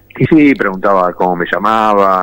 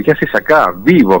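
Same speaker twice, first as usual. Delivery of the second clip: surprised officer. Retold or imitated.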